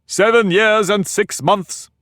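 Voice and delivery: thoughtful. A narrator's reading. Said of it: "repeated thoughtfully".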